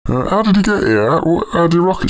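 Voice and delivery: high squeaky voice. Acted. Puppeteer high voice.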